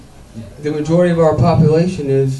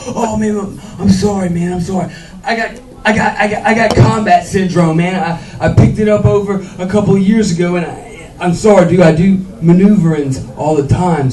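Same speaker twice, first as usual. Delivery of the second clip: lightly voiced nervous apologizing guy; a stranger sheepishly explaining his condition; apologetic guy; 4 semitones higher than usual. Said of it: "And he was like".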